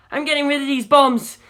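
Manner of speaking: loud, high hurried yell. A narrator's reading. Navigator yelling while throwing bombs overboard, loud. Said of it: "Jim yelled".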